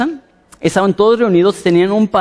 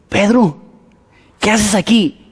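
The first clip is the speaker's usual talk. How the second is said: mock surprise; 5 semitones higher, slower than usual. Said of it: "le abren y dicen".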